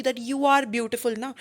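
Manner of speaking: very slow, each word spaced; slow example read. Shown as a demonstration. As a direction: read the example slowly for the class. Teacher reading example slowly. (धीमे, साफ़ उदाहरण पढ़ना)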